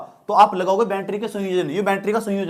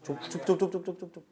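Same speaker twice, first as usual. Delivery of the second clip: hushing; 9 dB quieter, faster than usual. Real, not acted. Teacher hushing the noisy class.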